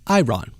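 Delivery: short, clearly split "Iran", like introducing oneself as Ron; succinct "I, Ron". Retold or imitated. Host mimicking how the president pronounces it, succinct "Iran" as "I, Ron". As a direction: say "Iran" as two words, "I, Ron". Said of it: "very succinctly saying their name is Ron".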